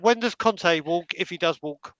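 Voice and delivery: slow it down and get the name right; measured, careful correction; careful rephrase. Shown as a demonstration. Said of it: "let me rephrase that".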